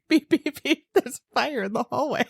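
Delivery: laughing, high mock alarm voice; mother mimics her son's alarm game; imitating a child imitating an alarm. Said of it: "it's like".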